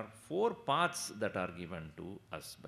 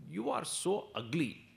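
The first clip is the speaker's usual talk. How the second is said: parrot voice; 6 semitones higher than usual. Acted. Parrot insults lady.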